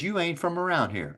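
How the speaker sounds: lightly put-on Texas twang, the wrong version; wrong take, a touch of Texas accent; mock Southern drawl. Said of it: "No, they didn't say it like that".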